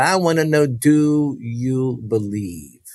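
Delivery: slow, drawn-out questioning; imitated woman preacher. Preacher face to face with the boy, slow weighty question. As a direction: stretch out each word of her question. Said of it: "she said".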